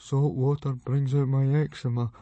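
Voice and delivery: small, pathetic protest; mumbling excuse. A narrator's reading. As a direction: mumble it sheepishly. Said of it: "mumbled Fishlegs".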